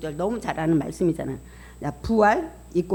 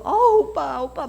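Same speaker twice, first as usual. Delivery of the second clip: high, louder glad cry to a brother; mock joyful cry; 7 semitones higher, 5 dB louder than usual. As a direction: imitate sisters overjoyed at a brother's return. Sisters hugging revived brother. (오빠를 반기는 흉내)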